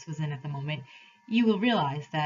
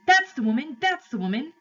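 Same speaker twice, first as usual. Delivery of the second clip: high, loud accusing shout; crying out; 8 semitones higher, 6 dB louder than usual. A narrator's reading. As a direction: cry it out urgently at a high pitch. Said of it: "cried the fat man".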